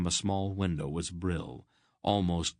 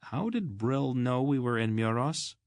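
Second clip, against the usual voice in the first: higher eager blurt; excited question; 6 semitones higher than usual. A narrator's reading. Garion asks his companions in his excitement, excited question. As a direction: rush it out without thinking. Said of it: "In his excitement".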